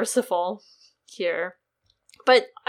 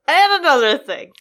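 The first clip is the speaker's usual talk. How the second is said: loud, higher, indignant; indignant outburst; 6 semitones higher, 8 dB louder than usual. Pretend. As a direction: blurt it out in mock outrage. Echoing the catchphrase louder.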